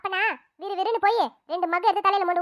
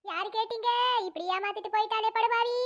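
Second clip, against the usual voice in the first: wailing lament; 4 dB quieter than usual. Acted. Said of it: "இப்ப எதுக்கு அழுவுற மாதிரி நடிக்கிறீங்க?".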